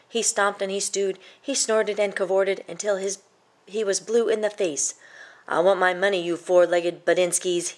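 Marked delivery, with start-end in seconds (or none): 5.5-7.7 somewhat louder grumpy demand; bully them for the money; troll shouting. Acted. Troll demanding money from the goats, mildly shouted. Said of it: "he shouted".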